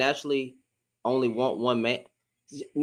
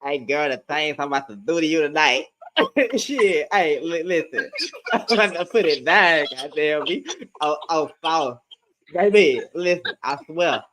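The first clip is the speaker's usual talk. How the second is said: lightly voiced smooth-talker, laughing between lines; hammed-up pickup lines, broken by laughter; seductive imitation. Friend mocking the cheater's voice, whispering in a lady's ear, hammed-up seduction. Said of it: "came up with that voice like that".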